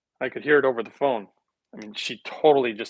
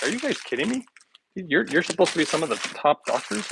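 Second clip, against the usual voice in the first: higher, mocking "are you kidding me"; incredulous scoff; 4 semitones higher than usual. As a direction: scoff at the so-called experts. Mocking doctors on newscast.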